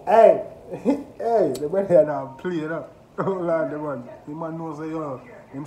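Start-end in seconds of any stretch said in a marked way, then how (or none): 0.1-4.0 loud, raised voice over the bars; hyped amazement. Real, not acted. Reactor hypes the artist's wordplay, amazed. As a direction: repeat the lyric like you can't believe it.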